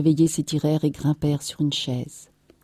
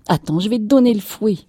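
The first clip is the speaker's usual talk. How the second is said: higher, louder, quick warning; angry threat; 5 semitones higher, 6 dB louder, faster than usual. A narrator's reading. Wife threatening the crying child with a whipping, angry.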